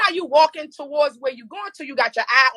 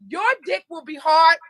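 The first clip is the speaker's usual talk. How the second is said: mocking shout. Mocking the pill packet.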